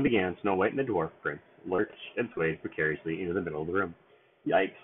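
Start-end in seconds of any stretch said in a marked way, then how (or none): 4.5-4.8 squeak. Acted. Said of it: "Sneezy squeaked".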